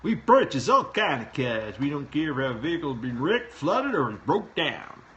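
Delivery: loud, lilting mock-Swedish sing-song; swooping comic Swedish accent; put-on Swedish accent. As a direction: read it in a hammed-up Swedish accent. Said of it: "try to say this with an accent".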